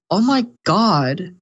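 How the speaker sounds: put-on high, slow whiny girl voice; mimicking the greedy streamer's high complaint; mocking whiny streamer. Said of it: "and she goes".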